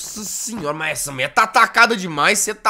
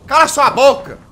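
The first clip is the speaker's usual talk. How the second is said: a hint of a higher rude voice; mock shrill voice; 7 semitones higher, 7 dB louder than usual. Gamer voicing the squeaky voice telling him off, mock rude reply. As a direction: snap back as the parrot voice.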